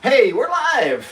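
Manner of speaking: loud, high, drawn-out announcement; calling out. Real, not acted. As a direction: stretch it out and call it across the room. Announces being live to partner.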